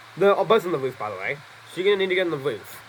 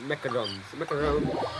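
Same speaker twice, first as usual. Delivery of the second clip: mock French accent; 3 semitones lower, 6 dB quieter than usual. Shown as a demonstration. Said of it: "Sorry, I'm probably trying to do a French accent".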